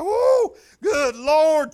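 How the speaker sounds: high, loud joyful whoop; excited woo. Retold or imitated. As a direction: whoop it out like the time flew. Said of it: "You'll be like".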